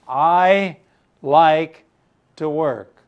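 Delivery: put-on proper eager boy. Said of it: "Very proper".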